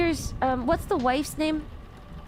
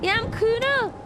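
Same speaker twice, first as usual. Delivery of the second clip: higher-pitched put-on weird Irish accent; Kuna; 7 semitones higher than usual. Streamer imitating someone for chat, in a high, weird Irish accent. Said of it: "But Kuna has a weird accent".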